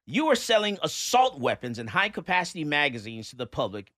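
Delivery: emphatic, punched-word read; mock-earnest letter oration; dramatic letter reading. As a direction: read the hate mail out like a declaration. Reads a hostile letter aloud.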